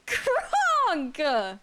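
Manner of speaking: loud, high call out; shouted name. Pretend. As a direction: yell the name like a cartoon. Calling out a silly name.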